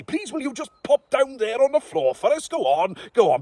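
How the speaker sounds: king coaxes hound to lie down; coaxing king. Acted. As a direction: cajole a stubborn dog. Coaxing the dog.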